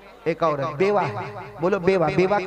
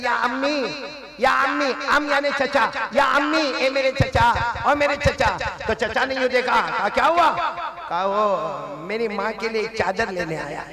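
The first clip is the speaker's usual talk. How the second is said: put-on higher, pleading little boy; lightly voiced child; 5 semitones higher than usual. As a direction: beg the uncle like a child. Orphan boy pleading to uncle. (चचा से बच्चे की हल्की विनती)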